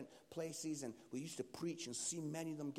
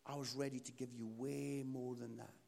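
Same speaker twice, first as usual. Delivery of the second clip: gentle God voice; 5 semitones lower than usual. Retold or imitated. God answering the two hundred pound request, gently.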